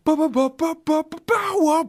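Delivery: high staccato explosion yelling; hammed-up crash noises ending in a cry of power; mock action yell. Acting out helicopter crash shout.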